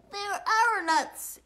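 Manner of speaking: high, slow, outraged exclamation; loud exclamation. A narrator's reading. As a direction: exclaim it loudly after the thief. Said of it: "exclaimed Bruce".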